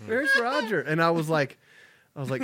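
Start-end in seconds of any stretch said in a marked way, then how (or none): 0.0-0.8 put-on high little girl voice; high child voice. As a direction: ask like a small child. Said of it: "She's like".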